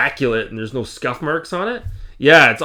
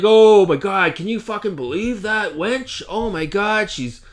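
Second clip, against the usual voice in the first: high, lightly mocking put-on voice of a gloating woman; a hammed-up imitation, pitched up; 7 semitones higher than usual. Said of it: "And she's like".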